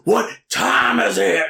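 slow drawn-out promo question; mock wrestler hype, slow; wrestling promo. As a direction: stretch it out to taunt the crowd. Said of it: "pretty good Vader promo".

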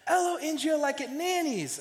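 high, loud mock toddler wail; imitating toddler breaking down. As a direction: mimic a small child at the end of her patience. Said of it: "she finally breaks down and goes".

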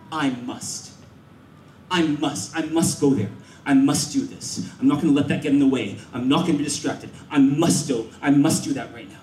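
low, determined inner voice; ambitious resolve. Acted. Thoughts of a person with ambition, low firm resolve. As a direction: think it aloud, low and resolute. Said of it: "you will think these two words all the time".

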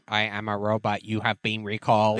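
flat, even robot voice. Retold or imitated. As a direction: say it like a machine announcement. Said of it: "robot voice".

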